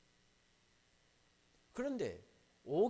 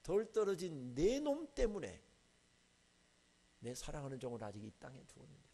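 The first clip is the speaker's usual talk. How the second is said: God rebuking. Retold or imitated. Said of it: "책망하시더라고요".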